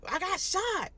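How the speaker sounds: high, loud urgent I got shot; panicked shout. Retold or imitated. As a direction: blurt it out in shock. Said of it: "So I was like".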